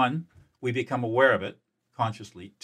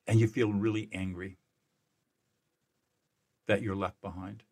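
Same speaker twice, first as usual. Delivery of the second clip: gentle empathic reflection. Shown as a demonstration. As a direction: talk them gently through their grief, pausing between feelings. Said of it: "And I say something like this".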